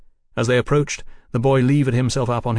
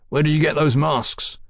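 barked; 3 semitones higher than usual. Acted. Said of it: "Fraser barked".

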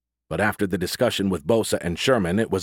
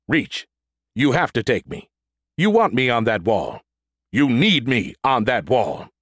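louder, pleading, movie-hero drama; pleading robot; 3 semitones higher, 3 dB louder than usual. Acted. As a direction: beg with hammed-up intensity. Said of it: "Harrison Ford".

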